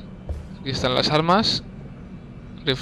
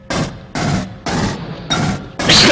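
sneezing. Real, not acted. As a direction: let out a real sneeze. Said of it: "qué estornudo". (estornudo fuerte)

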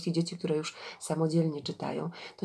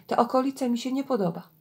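higher, hurried uneasy quote; uneasy urging; 7 semitones higher, 3 dB louder, faster than usual. A narrator's reading. Swimmer tells friends he dislikes the area, uneasy and hurried. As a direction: blurt it quickly, voice lifted high.

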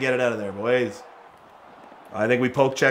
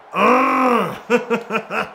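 high-pitched "ugh" of exertion; 7 semitones higher than usual. Real, not acted. Reacts to a play in game.

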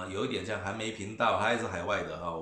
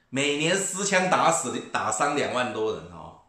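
ranting; 2 semitones higher, 5 dB louder than usual. Real, not acted. Ranting at the camera, a slow loud outburst about gun deaths. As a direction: hammer home the gun death toll.

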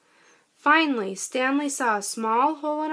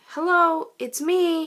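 calling out to friends, raised and high; 5 semitones higher, 4 dB louder than usual. Acted. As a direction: call out brightly to find them. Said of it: "he called to his friends".

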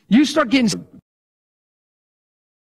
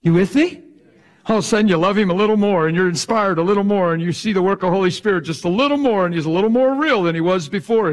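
rising preacher's fervor; 3 semitones higher, 4 dB louder than usual. Acted. Rousing the congregation.

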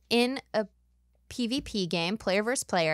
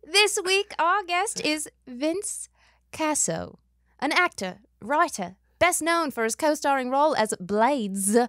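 put-on a shaky Australian accent that slips in and out; podcast intro read in a half-hearted Australian accent; mock Australian accent. Host opening the podcast, in a wobbly Australian accent. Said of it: "I'm really sorry for all the people I've offended".

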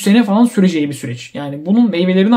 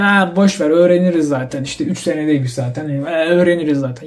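mock nonchalant; 3 semitones lower than usual. Student putting off learning the language, mock nonchalant. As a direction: imitate a lazy, dismissive learner.

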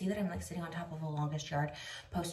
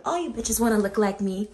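cocky shout; 10 dB louder than usual. Pretend. Mock boast to camera.

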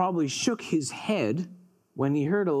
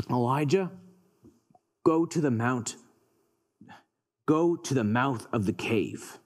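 voice of God; 6 semitones lower than usual. Acted. God commands Elijah.

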